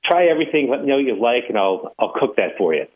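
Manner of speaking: hint of a Jamaican cook's accent. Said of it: "says with a very thick Jamaican accent".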